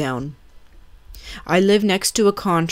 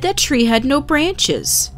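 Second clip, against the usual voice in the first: much higher and slow, spelling out disbelief; incredulous; 9 semitones higher than usual. Retold or imitated. Narrator protesting to the stranger, slow incredulous. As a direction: lay out the impossible fact, amazed.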